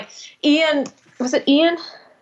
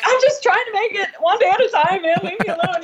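mock exasperated; 9 semitones higher than usual. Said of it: "And I'm like".

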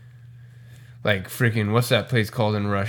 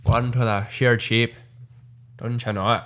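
mock Irish accent; 3 semitones lower than usual. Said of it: "an Irish accent like that".

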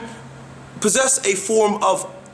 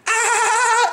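imitating laugh. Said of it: "and she laughs".

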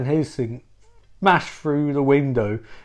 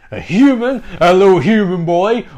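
high, louder mocking sneer; 4 semitones higher, 6 dB louder than usual. Eve mocking Bobby for wanting to be human, high sneer. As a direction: taunt him with a sing-song sneer.

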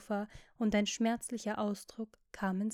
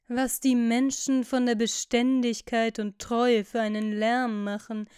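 louder, at the usual pitch; mild exclamation; 8 dB louder than usual. A narrator's reading. Lord holding forth on constancy and faithfulness, mildly exclaiming. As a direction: exclaim it firmly, without shouting. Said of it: "rief Lord Henry aus".

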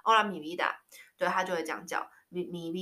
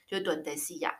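whispered duendecilla, almost voiceless; 悄声说出; 3 semitones lower, 5 dB quieter than usual. Real, not acted. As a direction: breathe the word duendecilla. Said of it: "whispered aside".

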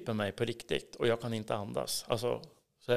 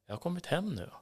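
heartfelt relief; 5 semitones higher, 5 dB quieter, faster than usual. Retold or imitated. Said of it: "så bara kände jag så här".

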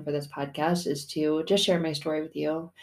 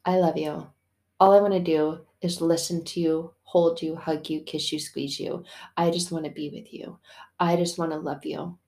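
tender reassurance. Acted. Voices God lovingly reassuring us.

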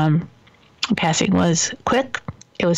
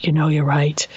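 whispered; 4 semitones lower than usual. Retold or imitated. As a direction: give in under your breath. Dad finally gives in.

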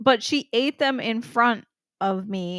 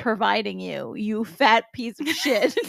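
mock sales pitch; 3 dB louder, slower than usual. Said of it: "Be like".

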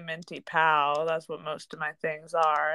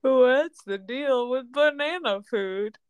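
hack stand-up comic; 5 semitones higher, slower than usual. Pretend.

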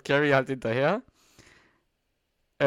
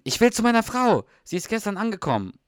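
higher, louder urgent movie hero; Jack Langston; 8 semitones higher, 4 dB louder than usual. Retold or imitated. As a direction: call it out like a desperate hero in a trailer. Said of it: "dann sagt Jack Langston". (hoch und laut, wie ein verzweifelter Filmheld)

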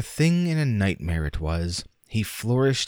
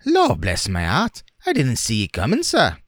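louder, higher flustered working man; startled workman; 5 semitones higher, 5 dB louder than usual. A narrator's reading. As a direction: blurt it out, caught off guard. Startled workman after collision.

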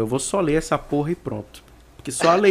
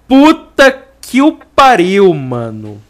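amazed exclamation; 5 semitones higher, 12 dB louder, slower than usual. Real, not acted. Amazed outburst after the poem.

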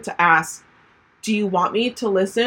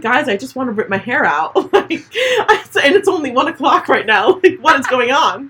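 high, louder mock-frazzled rant; stressed-out venting; 5 semitones higher, 5 dB louder than usual. Venting to friends in a voice message, stressed. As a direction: replay a frazzled voice message, half laughing. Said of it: "or the stress".

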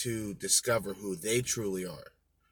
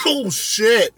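loud exclamation; 9 semitones higher, 11 dB louder than usual. Real, not acted. Reacts while coughing.

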